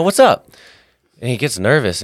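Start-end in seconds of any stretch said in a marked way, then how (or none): 0.0-0.5 high, loud, friendly shout across the park; friendly call out. Retold or imitated. Greeting a homeless man at the park, a loud high call. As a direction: hail him warmly from a distance.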